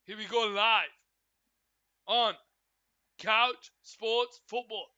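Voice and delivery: announcer call. Acted. To stream viewers, announcing the show as kickoff nears. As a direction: call the start like a broadcast host.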